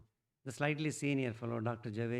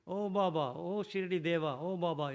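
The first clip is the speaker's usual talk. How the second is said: loud, raised chant-like calls to Baba; shouting prayer; 5 semitones higher, 5 dB louder than usual. Retold or imitated. Old patient calls on Shirdi Baba, a loud, high cry. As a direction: cry out each "oh" to the saint. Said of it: "he shouts".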